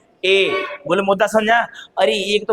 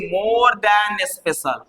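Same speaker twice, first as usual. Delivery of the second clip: more than special, stretched out slowly; slow emphasis; much slower than usual. Shown as a demonstration. Teacher stressing the key phrase slowly. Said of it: "ध्यान देना".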